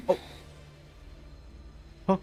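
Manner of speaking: normal talking voice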